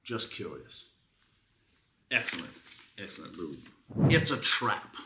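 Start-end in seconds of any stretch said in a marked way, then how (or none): 4.1-5.0 beanbag review read with mock gravity, slowing on the punchlines; dramatic review reading. Host reads a beanbag review to her co-host, mock-grave. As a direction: build each line toward the joke.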